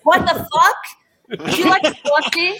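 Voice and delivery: loud, high New York accent. Shown as a demonstration. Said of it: "Let's hear your New York accent".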